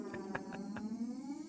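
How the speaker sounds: a soft, high giggle; high laugh. Real, not acted. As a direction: let it trail off high and quiet. Laughs after joke.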